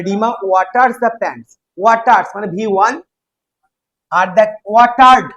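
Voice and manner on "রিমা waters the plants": slow, deliberate read-aloud. Shown as a demonstration. Teacher reads the example sentence slowly to students. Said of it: "teacher reading the sentence slowly".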